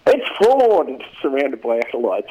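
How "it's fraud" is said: high, loud mock yell; Constance yelling out. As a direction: imitate a losing candidate yelling out. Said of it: "down there just yelling out".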